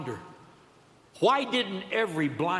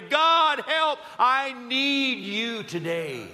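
loud, high, drawn-out plea; preacher acting out an urgent prayer; crying out to God; 6 semitones higher, 3 dB louder, much slower than usual. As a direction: lift your voice and beg for help. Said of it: "lift our voices and cry out and say".

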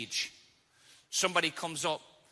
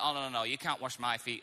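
softer, slightly lower mock-humble protest; fake humble; 4 semitones lower, 4 dB quieter than usual. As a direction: protest with put-on humility, voice dropped. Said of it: "trying to be, like, fake humble".

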